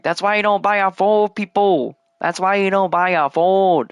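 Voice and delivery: high, exaggerated Asian accent impression. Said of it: "And I said in an Asian accent".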